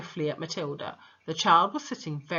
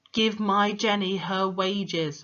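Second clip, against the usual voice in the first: slow stern ghost demand; 2 semitones higher, 4 dB louder, slower than usual. Shown as a demonstration. Dead father demanding his daughter's wages, slow stern. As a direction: Give my Jenny her wages said slowly and louder, Give stressed. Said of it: "it's supposed to be Magnus".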